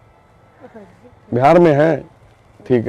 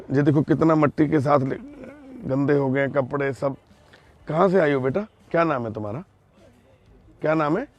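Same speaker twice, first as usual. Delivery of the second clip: hushed and soothing, much softer; soft comforting; 3 semitones lower, 7 dB quieter than usual. Real, not acted. Comforting a frightened lost girl. (धीमी, तसल्ली भरी आवाज़)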